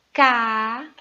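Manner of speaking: caderno loudly split into ca, der, no; syllable by syllable. Shown as a demonstration. Teacher giving an example to observe, caderno split syllable by syllable. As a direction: pause between each syllable of caderno. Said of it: "Qual é a sílaba tônica?".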